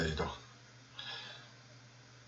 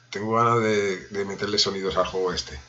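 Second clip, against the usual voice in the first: normal talking voice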